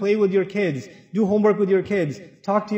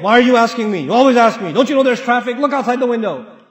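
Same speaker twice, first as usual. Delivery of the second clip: louder, mock-exasperated comeback; irritated husband retort; 4 dB louder than usual. Husband acting out his reply to the nagging wife, louder and exasperated. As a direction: snap back like a tired husband. Acted quarrel, husband snaps back.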